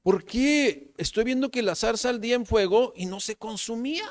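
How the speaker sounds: mock puzzled wondering, high pitch; Moisés. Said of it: "Entonces dijo". (imitación de asombro, voz aguda)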